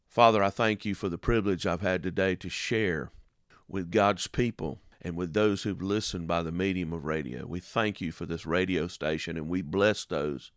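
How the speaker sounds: radio preacher's closing prayer. Acted. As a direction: pray gently over the listeners.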